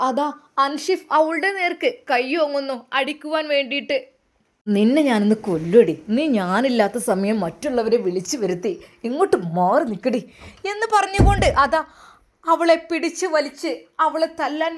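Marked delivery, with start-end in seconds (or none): 4.7-10.2 angry threat. Acted. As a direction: threaten her, voice dropped low. Husband threatens wife in quarrel. (താഴ്ന്ന ശബ്ദത്തിൽ ദേഷ്യം)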